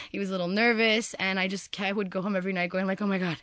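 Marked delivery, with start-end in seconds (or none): 3.0-3.4 loud, high mock pleading; re-enacted outburst, pitched up and forceful; exasperated plea. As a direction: beg in comic exasperation. Acting out her nightly exasperated plea.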